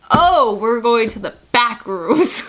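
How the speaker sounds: loud, slow, dramatic echo; mock realization. Traveler learning she's headed for questioning, mock realization. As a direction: draw it out with hammed-up astonishment. Acts out her reaction to officer.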